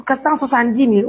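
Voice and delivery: fast, tossed-off number; rushed figure. Real, not acted. Reading out the donation total quickly before correcting it. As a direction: rattle the sum off quickly. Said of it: "autant pour moi".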